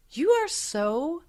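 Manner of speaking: slow, high, sing-song gushing with a laugh; mock gushing praise. Mom teasing her teenage son with mock gushing praise. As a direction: lay the praise on thick, half teasing.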